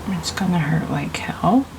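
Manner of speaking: whisper. Retold or imitated. Song lyric whispered.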